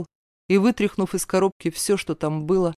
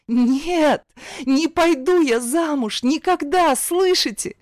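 much higher, louder cry of refusal; desperate shout; 9 semitones higher, 3 dB louder, slower than usual. A narrator's reading. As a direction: cry out against the forced marriage. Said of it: "закричала".

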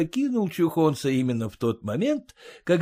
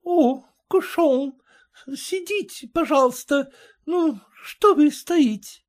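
put-on French accent; 12 semitones higher, 3 dB louder than usual. A narrator's reading. French lady speaks.

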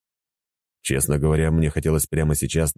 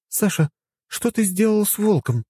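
higher woman's voice, reproachful. Acted. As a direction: ask with gentle reproach. Anya voiced, female role. (с укоризной)

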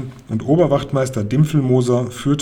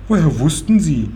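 higher-pitched surprised question; 4 semitones higher, 4 dB louder than usual. A narrator's reading. Grandmother to the fortune-teller who just arrived, surprised. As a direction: ask in mild amazement. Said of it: "fragte Großmutter überrascht".

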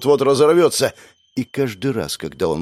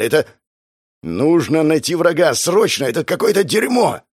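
higher, rising panic; panicked outburst; 6 semitones higher than usual. Acted. Frightened bandit panics after the sniper shot, rising alarm. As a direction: spit it out in alarm.

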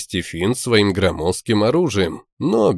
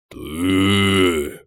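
through gritted teeth. Acted. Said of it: "процедил он".

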